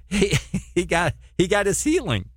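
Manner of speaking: amused, laughing delivery. Real, not acted. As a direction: chuckle while saying it. Laughing through line.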